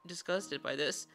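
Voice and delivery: squeaky cute uwu voice, half in jest. Pretend. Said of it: "we got uwu voice going for five minutes".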